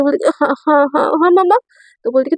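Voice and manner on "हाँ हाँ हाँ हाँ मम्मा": flustered waking. Acted. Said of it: "एकदम ना हड़बड़ा के उठाते".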